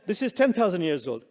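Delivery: annoyed. Acted. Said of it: "The guide is annoyed".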